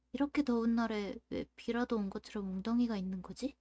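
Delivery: measured visual-novel read-aloud; story narration. A narrator's reading. Streamer reading a summer story to viewers, story narration. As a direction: narrate it as a first-person story.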